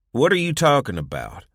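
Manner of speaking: loud, incredulous challenge; angry disbelief. Acted. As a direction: demand it, baffled and irritated. Son reacts in disbelief.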